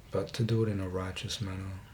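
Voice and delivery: talking while chewing gum; words round a wad of gum. Real, not acted. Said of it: "Excuse the gum smacking".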